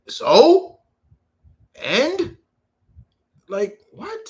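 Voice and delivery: loud, high so and; challenging retort. Real, not acted. Streamer retorting to haters, loud challenge. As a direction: fire back dismissively.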